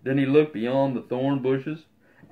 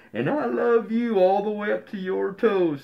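lightly raised playful big hare; 7 semitones higher than usual. Acted. Big hare answers little hare, a touch higher and playful. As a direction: swing him up with a tease.

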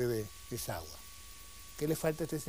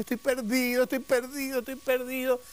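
high, loud wail of despair; crying out, lost; 7 semitones higher, 3 dB louder than usual. Acted. Lost sailor crying out in the storm, acted wailing. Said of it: "llora y grita y dice".

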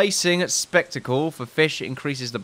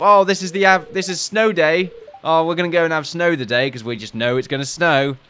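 mock villager; 4 semitones higher, 3 dB louder than usual. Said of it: "festivals that involve".

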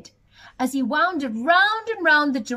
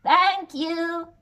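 higher, louder grateful goat; 3 semitones higher, 4 dB louder than usual. Acted. Goat thanking the giant for the sail, grateful goat voice. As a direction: bleat a happy thank-you. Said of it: "said the goat".

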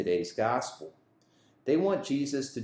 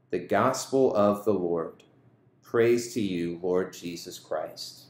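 measured, emphatic scripture reading; Gospel reading; 4 dB louder than usual. Acted. Priest reading the Gospel to students, solemn proclamation. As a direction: proclaim the Gospel firmly to the congregation.

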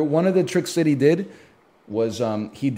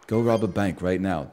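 lower, softer put-on British accent; 7 semitones lower, 4 dB quieter than usual. Shown as a demonstration. Darren Brown ordering a bank robbery, low British accent. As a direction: give the command in a British accent. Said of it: "you have to say it in a British accent".

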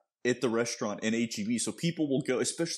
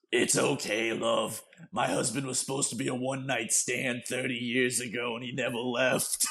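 smoker's voice. Retold or imitated. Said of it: "in the most smoker's voice possible".

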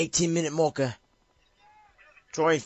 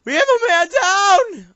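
high, loud, slow radio-style alarm; hammed-up man-down alert; mock soldier callout; 10 dB louder than usual. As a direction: call it like a soldier on comms.

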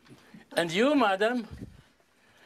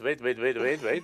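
wait wait through a laugh; laughing interruption. Real, not acted. Magician stopping the volunteer's fast count, laughing. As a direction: halt her, chuckling.

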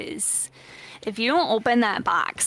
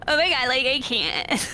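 put-on valley girl voice; 4 semitones higher than usual. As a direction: play a ditzy valley girl. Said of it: "like a valley girl".

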